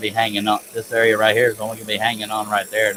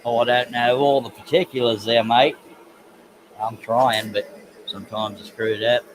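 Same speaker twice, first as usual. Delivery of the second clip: broad mock Aussie accent; chummy Aussie, laying the accent on thick; put-on Australian accent. Woodworker excuses his accent attempts, mock Australian accent.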